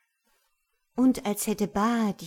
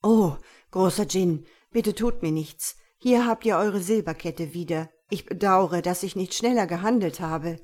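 in awe; 5 dB louder than usual. Acted. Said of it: "warf sich vor Ehrfurcht auf den Boden".

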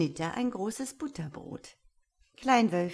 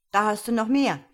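loud, higher offer to a pet bird; raised, encouraging voice; boy offering more; 4 semitones higher, 9 dB louder, faster than usual. A narrator's reading. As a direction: hand it over with a lively call.

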